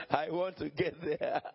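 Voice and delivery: chuckling as he repeats the wish; laughing. Real, not acted. Preacher repeats his wish to the congregation, laughing.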